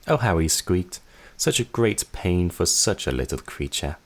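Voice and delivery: tossed off at normal speed; mocking sister, normal pace. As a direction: sister retells it plainly. Same line again, normal pace.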